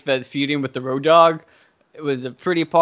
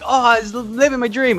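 high-pitched starry-eyed gushing; wide-eyed excitement; 7 semitones higher than usual. Retold or imitated. Reno living the dream among new colleagues, wide-eyed excitement. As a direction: play the thrilled, naive newcomer. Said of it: "he's so excited, all wide-eyed".

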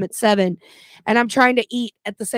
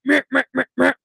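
angry stomping noises; 3 semitones higher, faster than usual. Retold or imitated. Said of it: "angry stomping to me".

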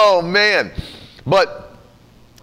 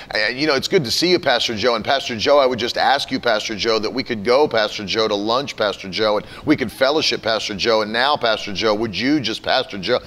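lower, droning mock prayer; filler-word prayer; 5 semitones lower than usual. Mocking someone with no prayer life, droning prayer. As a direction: parody a prayer stuffed with Father God. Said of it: "if you talked like that to an actual person".

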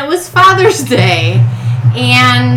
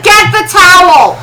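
mom's bossy yelling; 9 semitones higher, 5 dB louder than usual. Retold or imitated. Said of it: "And my mom was like".

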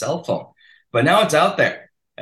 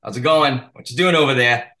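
put-on Rhode Island accent; 4 semitones higher, 6 dB louder than usual. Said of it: "that, that accent, boom".

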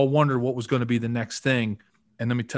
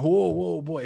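raised Southern North Carolina drawl, imitated; Southern North Carolina accent; 5 semitones higher, slower than usual. Line coach halting his players, imitated Southern North Carolina accent. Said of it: "Southern North Carolina accent".

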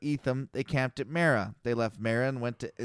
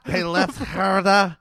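put-on Jewish accent; 3 semitones higher, 4 dB louder than usual.

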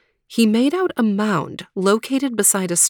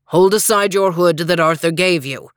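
knight voice; 2 semitones lower, 3 dB louder than usual. Acted. Green Knight.

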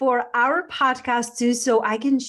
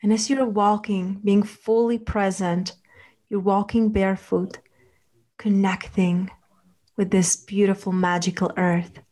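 guided meditation. Acted. Leads a relaxation visualization.

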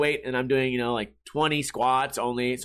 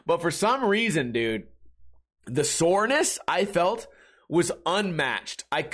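ordinary talk, nothing marked

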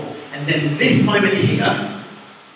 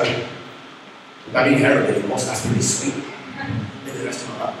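mock freed addict; 4 semitones lower, 4 dB quieter, slower than usual.

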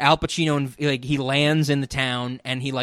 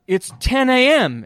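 mock nagging voice; 9 semitones higher, 5 dB louder, slower than usual. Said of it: "and be like".

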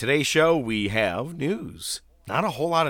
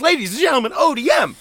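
high, loud ring announcer build; 10 dB louder, faster than usual. Acted. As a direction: introduce him like a champion. Announcing co-host entrance.

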